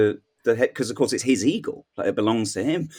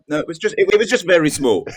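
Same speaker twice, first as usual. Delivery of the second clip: high, louder mock falconer defending himself; 9 semitones higher, 6 dB louder than usual. Joker imitates the falconer explaining his implant, squeaky mock. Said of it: "To be like".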